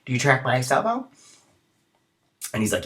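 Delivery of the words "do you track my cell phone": a hint of a naive young woman asking; quoted girl. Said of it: "she's like".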